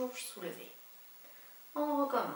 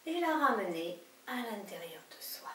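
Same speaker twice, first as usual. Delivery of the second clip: whispered. Shown as a demonstration. Guided energy cue.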